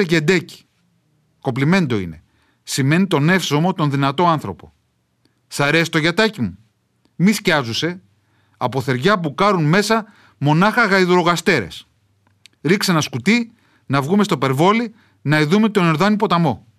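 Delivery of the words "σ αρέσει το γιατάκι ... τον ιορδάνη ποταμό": a hint of a proud mountain villager showing off; old village dialect. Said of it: "με βαριά προφορά". (ελαφρά χωριάτικη φωνή με βαριά προφορά)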